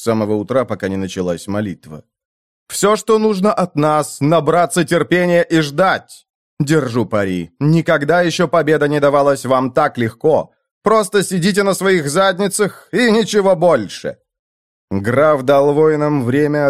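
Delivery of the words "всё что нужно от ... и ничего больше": a lord's rousing speech to troops; commanding count. Acted. Count addresses the army.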